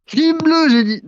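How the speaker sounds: "Team bleu" squeaked very high and loud; shrill high "Team bleu, j'ai dit"; squeaky insistence. Acted. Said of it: "non, team orange".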